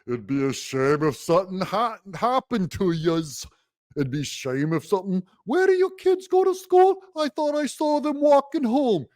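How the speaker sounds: smiling menacing loan shark; threatening voice. Retold or imitated. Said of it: "here comes the threatening voice tone".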